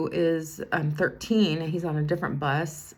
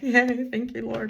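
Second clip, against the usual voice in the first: inner cheer; 6 semitones higher, 4 dB louder, slower than usual. Retold or imitated. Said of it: "inside I'm like".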